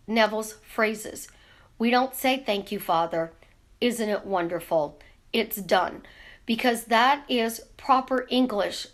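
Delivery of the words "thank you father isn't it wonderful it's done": a hint of an old-fashioned British accent, lower; lightly voiced British prayer of thanks; mild British accent giving thanks. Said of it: "in a British accent".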